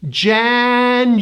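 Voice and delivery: January broken into JAN-YOU-WEAR-EE; very slow, held syllables in January; January with hidden Y and W stretched out; four syllables. Shown as a demonstration. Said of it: "Now do this".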